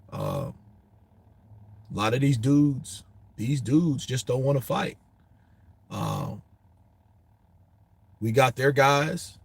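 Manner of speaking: mock Crawford, mild and relaxed; laid-back Crawford. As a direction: lightly imitate Crawford's easygoing tone. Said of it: "You have a Crawford in person ... he's pretty laid back".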